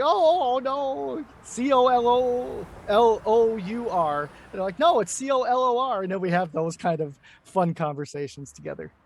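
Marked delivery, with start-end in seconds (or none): 0.0-4.2 high, loud, drawn-out objection; mock protest. Mimics UK friends objecting to spelling. 4.8-6.0 higher, louder playful correction; mock retort. Retells own retort in spelling quarrel.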